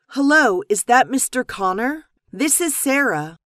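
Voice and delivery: acted anxious. Sarah phones Mister Connor about a problem, mildly anxious. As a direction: raise the pitch with a touch of worry. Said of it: "very anxious".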